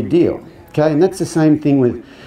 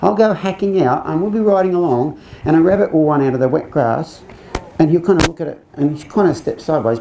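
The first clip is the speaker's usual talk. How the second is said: lady's voice in a put-on Cockney accent, pitched higher; 4 semitones higher, faster than usual. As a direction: do the English lady with a Cockney twang. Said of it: "This accent gets more and more cockney".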